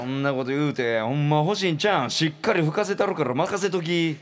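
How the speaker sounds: pushy seducer. Acted. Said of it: "いきなり風を吹かそうとし始めた周平魂".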